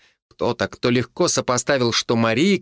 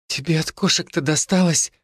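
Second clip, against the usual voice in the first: smiling; 5 semitones higher than usual. Acted. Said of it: "улыбнулась Марийка".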